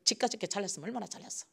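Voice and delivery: quiet, fast, scornful muttering; jealous aside, muttered quickly; sneering mutter. Retold or imitated. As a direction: grumble it under your breath, fast. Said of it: "이렇게".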